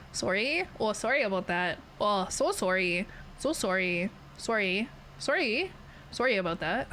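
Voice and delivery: Canadian "sorry", first vowel as in "sore"; exaggerated Canadian sorry. Shown as a demonstration. Streamer trying out stereotype apologies, "sorry" said "sore-ee". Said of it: "I don't say sorry like that".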